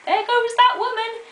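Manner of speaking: lightly voiced gossiping neighbours; scandalised neighbours, drawn out at the end; muttering neighbours. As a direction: gossip about her, starting high and slowing down. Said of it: "everyone in the neighbourhood would mutter".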